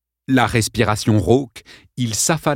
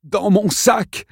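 high, slow, strained call; exhausted boy; 12 semitones higher, slower than usual. Acted. Hanging boy answers Cordy, high and slow. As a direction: drag out the answer, spent.

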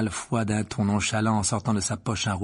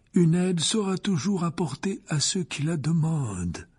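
higher, each word deliberate; very slow, weighty; 8 semitones higher than usual. A narrator's reading. Dumbledore speaks slowly to Malfoy. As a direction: make sure no word is missed. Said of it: "en parlant très lentement".

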